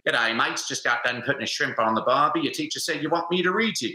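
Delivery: put-on jokey Australian accent; hammed-up Aussie "G'day, mates" bloke; Australian Pete. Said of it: "get Australian Pete to come read to you".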